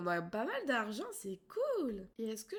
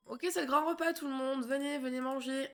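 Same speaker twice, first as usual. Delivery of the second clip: calling out to family; 3 semitones higher, 4 dB louder than usual. Pretend.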